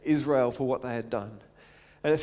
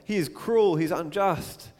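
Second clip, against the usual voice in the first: pleading protest; 4 semitones higher, 4 dB louder than usual. Acted. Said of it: "And Moses says".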